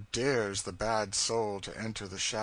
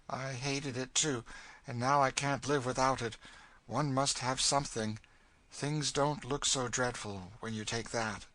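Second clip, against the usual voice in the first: slightly raised character voice, resigned; resigned, bitter woman; 4 semitones higher than usual. Acted. Cassie urging brandy on the girl, bitter resignation. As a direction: counsel her with worn-down bitterness.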